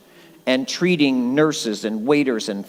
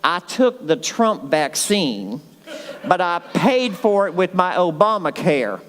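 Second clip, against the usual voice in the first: imitating a Georgia friend with a laugh; Southern accent; 3 semitones higher than usual. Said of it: "he's got a Southern accent".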